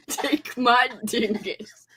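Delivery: slow, laughing take my dingus; mock ASMR line through laughter. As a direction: drag it out while cracking up. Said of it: "Usually people say".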